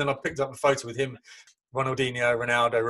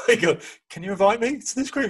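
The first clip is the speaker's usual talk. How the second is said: excited plea; 10 semitones higher, 4 dB louder than usual. Retold or imitated. Begging to join WhatsApp group.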